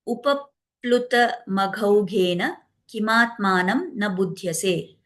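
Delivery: slow, measured chant of the Sanskrit verse; Sanskrit verse recitation. Acted. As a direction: recite the shloka slowly and deliberately, like scripture. Manthara's Sanskrit verse, quoted.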